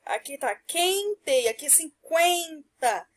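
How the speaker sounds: quente and cinquenta said slowly, sounding the qu sounds apart; slow down to show how qu sounds in quente and cinquenta; slow sound demo. Shown as a demonstration. Teacher showing pupils how qu sounds in quente and cinquenta, slowly. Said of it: "mudou o quê? O som".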